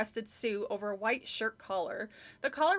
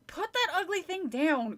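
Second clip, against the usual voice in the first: impatient; 7 semitones higher than usual. Acted. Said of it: "Chris repeated impatiently".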